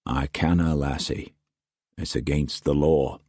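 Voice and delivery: quiet, gentle Scottish refusal. Acted. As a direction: let her down softly.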